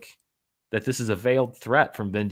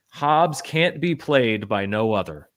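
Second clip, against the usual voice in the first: imperial decree. Retold or imitated. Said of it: "he went all emperor there".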